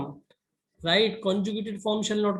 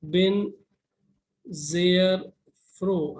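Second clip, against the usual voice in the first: word-by-word dictation; much slower than usual. Shown as a demonstration. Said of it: "So I'll write".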